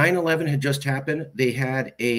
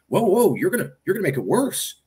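mocking friends' pushback; 6 semitones higher than usual. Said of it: "immediate pushback from my friends and family".

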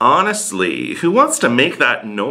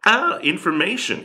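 higher-pitched imitation of a Dutch person; imitated Dutch person; 5 semitones higher, 3 dB quieter than usual. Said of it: "ask a Dutch person how they pronounce".

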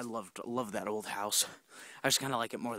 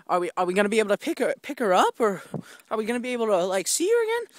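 put-on pleading kid; 8 semitones higher, 8 dB louder, faster than usual.

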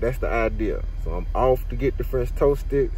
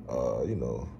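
whispering; 9 semitones lower, 8 dB quieter than usual. Real, not acted. Whispered aside.

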